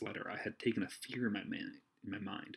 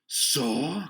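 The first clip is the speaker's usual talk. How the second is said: high, loud startled so; loud cry; 6 semitones higher, 9 dB louder than usual. Acted. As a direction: cry out in surprise. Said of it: "cried Silver".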